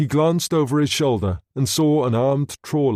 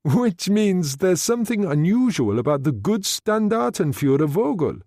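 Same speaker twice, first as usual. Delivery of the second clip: excited; 7 semitones higher than usual. Acted. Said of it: "excitedly this time".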